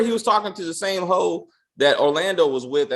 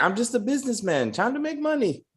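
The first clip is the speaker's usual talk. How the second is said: put-on higher-pitched caricature of a stereotypical Jewish accent; Bernie; 6 semitones higher than usual. Podcaster mocking a businessman's Sabbath excuse, stereotypical Jewish accent. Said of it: "in his very stereotypical Jewish voice".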